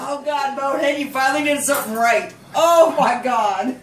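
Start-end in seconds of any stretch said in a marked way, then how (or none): 2.5-3.7 slow, louder overwhelmed cry; emotional. Real, not acted. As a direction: let it out slowly, overcome. Overwhelmed mother.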